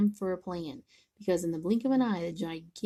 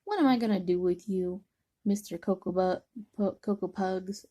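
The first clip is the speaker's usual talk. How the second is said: scolding mother. Acted. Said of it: "she scolded".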